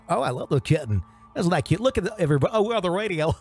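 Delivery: lightly hammed cooing radio host; mock gushing DJ. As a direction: coo at the kitten for the listeners. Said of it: "That sort of radio".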